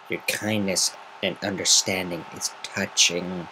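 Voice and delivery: slow sarcastic thanks; dry snark, drawn out; snarky. Acted. Rainbow Dash snarking back at Gilda, slow and sarcastic. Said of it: "Rainbow Dash snarked".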